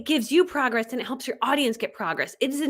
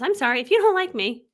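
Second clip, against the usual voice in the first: emphatic declaration; 6 semitones higher, 5 dB louder than usual. Shown as a demonstration. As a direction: stretch it out loudly and pitch it up. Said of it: "That's how I say it".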